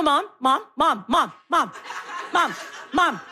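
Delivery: put-on insistent child calling mom over and over; lightly voiced nagging son; whiny kid nagging. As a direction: pester mom from the back seat.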